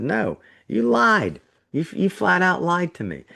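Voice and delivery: indignant retold accusation; accusing. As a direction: replay telling the dealer off. Retold quarrel with the dealer.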